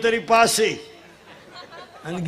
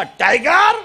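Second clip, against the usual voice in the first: raised, rising cue to the crowd; rousing call; 4 semitones higher, 4 dB louder, much slower than usual. Real, not acted. Rousing children to answer loudly.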